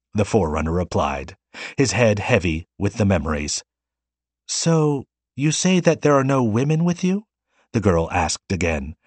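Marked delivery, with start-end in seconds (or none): 4.5-7.3 higher, disbelieving question; shocked. A narrator's reading. Girl shocked that no women came back, higher. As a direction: ask it as if you can't believe it. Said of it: "her eyes widening in genuine shock".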